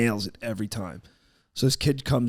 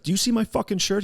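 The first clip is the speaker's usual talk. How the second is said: angry yell; 9 semitones higher, 3 dB louder than usual. Retold or imitated. Bouncer yelling at rude kid.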